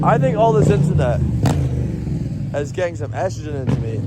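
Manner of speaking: high-pitched, giggly confession; cracking up at yourself; amused. Real, not acted. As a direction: speak up high through the laughter. Cracking up at own swearing.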